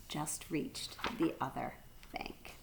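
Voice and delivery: slow, whispered close; soft storyteller hush; hushed ending. A narrator's reading. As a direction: ease the chapter to a hushed finish. Hushed end of chapter.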